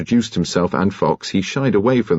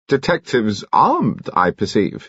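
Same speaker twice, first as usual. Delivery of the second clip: slow, slightly raised sly jibe; a hint of malevolent alto; 4 semitones higher, slower than usual. A narrator's reading. Mister Finn sneering at the armed detectives. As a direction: drop the barb slowly. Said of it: "with a malevolent glance".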